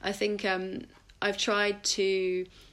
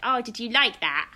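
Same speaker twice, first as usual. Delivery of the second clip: softened playful voice; 3 semitones higher than usual. Retold or imitated. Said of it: "my voice very softens".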